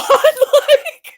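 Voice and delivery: a sped-up chipmunk squeak; squeaky chipmunk imitation. Mocking the ranting woman in a chipmunk voice. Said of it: "watch Foodie Beauty in this voice".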